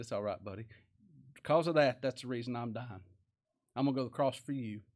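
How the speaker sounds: low, softened forgiving voice; gentle reassurance. Acted. Preacher voices the Lord forgiving Peter, gently reassuring. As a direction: quietly comfort a friend who failed you, with understated tenderness.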